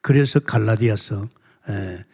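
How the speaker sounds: normal talking voice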